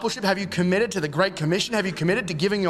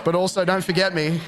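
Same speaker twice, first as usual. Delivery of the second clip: laughing retort. Retold or imitated.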